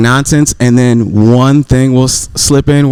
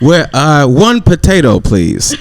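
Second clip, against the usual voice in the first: hesitant, badly faked Irish accent; attempted Irish accent; 3 semitones higher, slower than usual. Man playing a restaurant customer for friends, mock Irish accent. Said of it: "your best Irish accent".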